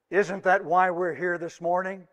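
usual speaking voice

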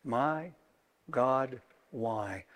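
hushed, broken question; quiet lament. Acted. Quoting cry from the cross.

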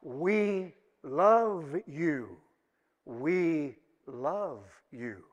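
very slow, tender declaration to God; heartfelt. Acted. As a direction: draw each word out from the depths of your heart. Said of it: "from the depths of our heart".

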